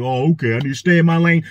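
low imitation of a sheepish man; embarrassed half-giggle. Imitating Russell answering the woman in public, sheepish. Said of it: "Like, kinda like that".

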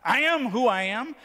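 "I am who I am" lifted high and loud, rising at the end; imitated vocal lilt. Preacher echoing Dave's voice for the congregation, high, loud lilt on "I am who I am". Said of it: "did you hear his voice go".

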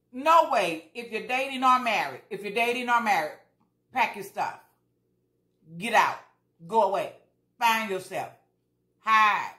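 loud, forceful warning; emphatic urging. Real, not acted. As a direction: urge them firmly to get out. Urging abuse victims to leave.

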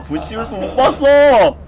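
scared horror game streamer. Real, not acted. Panicked complaint about the monster.

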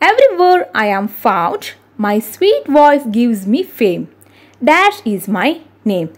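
slow, measured verse recitation; riddle reading. Acted. Teacher reads a bird riddle to pupils, slow recitation. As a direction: read each line deliberately, with swinging intonation.

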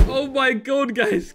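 high, loud burst of excitement; excited shout. Real, not acted. Player came back online.

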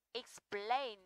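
"explain" with a drawn-out stressed PLAIN; stress on diphthong. Shown as a demonstration. Teacher repeats example for students, stressing the diphthong. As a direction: repeat "explain", weight on the second syllable. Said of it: "Trọng âm sẽ rơi vào âm đôi".

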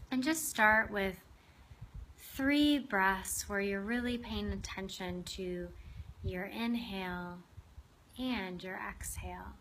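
unhurried meditation guide, long pauses between phrases; guided meditation. Acted. Host guiding listeners to open their hearts to a lizard, guided meditation. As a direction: lead them gently inward, leaving space after each phrase.

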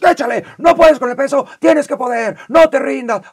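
loud, high pumped-up shouting; pushy gym coach. Retold or imitated. Gym trainer yelling encouragement at a lifter, loud and high. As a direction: hype the lifter through the rep. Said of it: "Toda esta gente que es".

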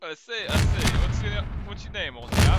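blustery Southern rooster voice; Foghorn Leghorn. Pretend. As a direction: boom it like a cartoon rooster. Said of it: "sounded more like Foghorn Leghorn".

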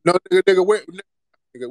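loud, forceful, dragged-out challenge; angry demand. Real, not acted. Host yelling at a caller who dodges his origins, angry. Heated call-in argument.

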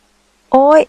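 sharp, high, loud yelp of pain; a sudden pained cry, cut off; hoarse cry of pain. A narrator's reading. Girl cries out in pain as he squeezes her thigh, hoarse yelp. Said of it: "หล่อนร้องเสียงแหบ".

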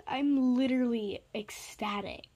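whisper. Real, not acted. Hushed after shouting.

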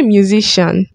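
musician said as "myu-zi-shan"; musician without k. Shown as a demonstration. Creator corrects themselves, musician as "myu-zi-shan". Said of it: "Is it musician or musician?".

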